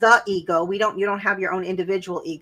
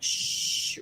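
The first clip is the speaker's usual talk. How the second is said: a hushed shh to stuff it down; shushing whisper; 6 dB quieter than usual. Retold or imitated. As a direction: whisper it to silence the feeling. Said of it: "we feel it and we're like".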